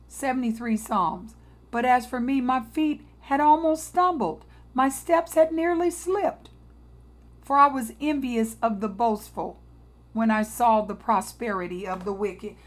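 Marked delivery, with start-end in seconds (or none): 1.7-12.6 solemn preacher's scripture reading. Acted. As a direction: read the verses with weight. Rereads Psalm.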